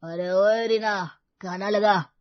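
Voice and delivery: put-on slow, loud, slurred drunken call; a drunk husband barking for his dinner; husband home drunk demands dinner, loud and slow. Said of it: "शराब पी कर आया था।".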